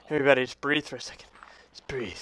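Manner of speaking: soft, low calming murmur; calm everyone down, very quietly; hushed reassurance. Pretend. Soothing everybody after a panic.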